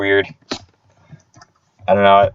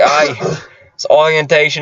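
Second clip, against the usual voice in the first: higher-pitched mock Aussie accent; Australian accent; 5 semitones higher, slower than usual. Mimicking coworker at orientation, Australian accent. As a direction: imitate a chatty Australian. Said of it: "in a thick Australian accent".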